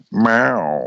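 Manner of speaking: falling imitated meow; cat meow. Co-host making noises while the others talk, cat meow. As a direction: slip in a silly cat noise. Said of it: "What are you doing?".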